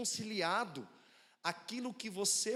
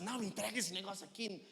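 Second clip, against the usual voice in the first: aggressive order. Shown as a demonstration. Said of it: "porque é agressivo demais pra uma criança".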